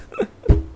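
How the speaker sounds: squeaky high giggle. Real, not acted. Laughing at own misreading.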